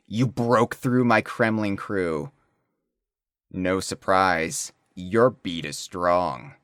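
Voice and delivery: slow, with long dramatic pauses. Acted. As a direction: read it slow, pausing for drama. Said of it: "Dramatic pause".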